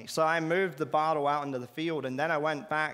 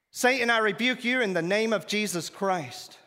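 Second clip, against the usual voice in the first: raised, commanding rebuke of Satan; forceful rebuke; 5 semitones higher, 3 dB louder than usual. Retold or imitated. Preacher retelling, rebuking Satan aloud. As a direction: rebuke him with full authority.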